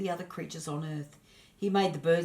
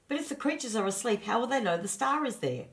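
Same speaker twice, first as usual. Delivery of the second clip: puzzled Punjal; 6 semitones higher than usual. Acted.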